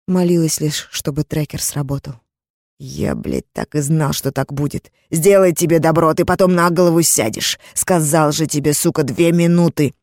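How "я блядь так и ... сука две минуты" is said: understated furious rant; mild angry yelling. Acted. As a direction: snarl at her. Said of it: "кричал мне в лицо".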